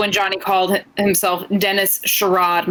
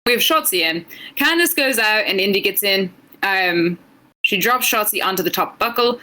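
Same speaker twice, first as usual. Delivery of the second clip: British accent. Shown as a demonstration. Co-host recapping a match on a dare, British accent. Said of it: "give us your English accent".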